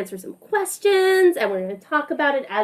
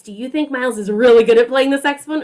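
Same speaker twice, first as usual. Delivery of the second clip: fast, louder, keen question; upbeat and bright; 4 dB louder, much faster than usual. Shown as a demonstration. Asking the children whether Miles plays well, fast and eager. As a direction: sell "really good" with quick enthusiasm. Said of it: "Show me with your face".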